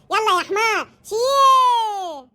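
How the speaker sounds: long drawn-out shouted command; barked order. Acted. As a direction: drive him like a donkey, shouting. تأمر ابنها كالحمار. (أمر صارخ ممدود)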